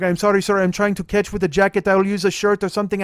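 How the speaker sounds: loud, high, hurried-sounding mock apology; frantic apology. Father apologizes to driver while catching puke, flustered.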